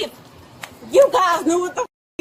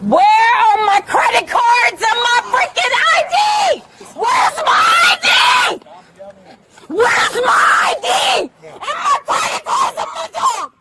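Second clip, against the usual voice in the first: yelling across the room; 3 semitones higher than usual. Real, not acted. Demanding her things during arrest.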